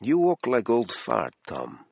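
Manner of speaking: a hint of an Eastern European accent, slow; teasing him gently in a light Eastern European accent; lightly voiced Eastern European woman. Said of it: "In a light Eastern European accent".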